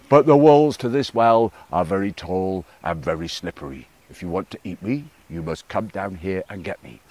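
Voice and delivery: lightly voiced frog, teasing from below. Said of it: "said Crow".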